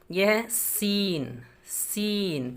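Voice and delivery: सीन drawn out slowly and softly with a clean s; slow, soft सीन for learners; careful seen. Shown as a demonstration. Teacher slowly sounds out सीन to students. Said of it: "इससे थोड़ा अलग तलफ़ुज़ है ये शीन".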